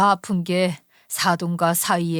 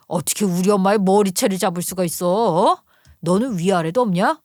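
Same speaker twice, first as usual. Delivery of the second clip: husband angry. Acted. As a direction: scold his wife for grabbing his mother. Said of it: "불같이 당연히 화를 냈죠". (아내를 꾸짖는 남편, 화난 목소리)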